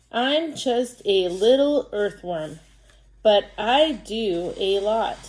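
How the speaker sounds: slow, careful read-aloud as a little earthworm; reading to children. Acted. Teacher reading an earthworm book to pupils, slow storytime voice. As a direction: read it slowly, word by word, for young readers.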